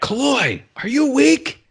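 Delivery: high, strained drill-sergeant yell. Retold or imitated. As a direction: yell it back at a straggling recruit. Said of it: "he yells back".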